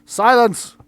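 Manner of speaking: high, very loud shout; full-voiced call for order; mistress's command. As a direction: shout over a room of yelling people. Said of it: "They're all yelling at one another".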